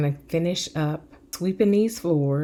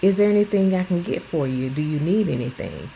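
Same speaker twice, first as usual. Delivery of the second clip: gentle caring voice. Retold or imitated. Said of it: "a different approach".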